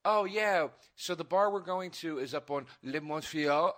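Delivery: mock French accent on the place name; casual English, then an affected French Montreal. Imitating Montreal locals naming a street, put-on French accent. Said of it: "they would do the accent".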